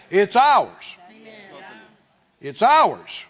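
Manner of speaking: fervent sermon declaration; forceful preaching. Acted. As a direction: drive each word home.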